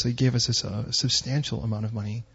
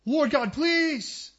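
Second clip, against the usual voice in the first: slow plea; 13 semitones higher, much slower than usual. Retold or imitated. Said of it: "final plea".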